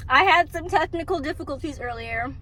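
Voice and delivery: talking while chewing gum. Real, not acted. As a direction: gum in the mouth. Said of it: "Sorry, I'm chewing gum".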